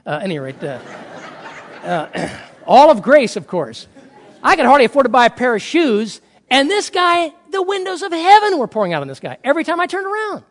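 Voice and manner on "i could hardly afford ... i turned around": loud, high-pitched exasperation; hammed-up complaint about another's good luck; envious griping. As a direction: rant in mock disbelief, voice raised. Retelling his envious grievance.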